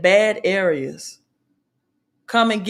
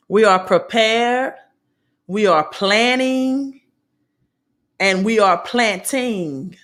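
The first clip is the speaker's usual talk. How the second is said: slow, proud Southern accent; Southern twang; 2 semitones higher than usual. Shown as a demonstration. Speaker restates her motto in her Southern twang, proudly. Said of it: "I have my Southern twang accent, so I'm gonna say it this way".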